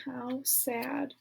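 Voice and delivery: soft breathy whisper, barely voiced; a hushed, sad little whisper; whispered sadness. A narrator's reading. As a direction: let it slip out as a sad whisper. Narrator's sad aside in story.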